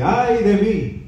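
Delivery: slow, drawn-out lament; slow sorrowful exclamation; lamenting cry. Retold or imitated. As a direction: draw out the woe of the prophet. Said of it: "tiene un signo de admiración".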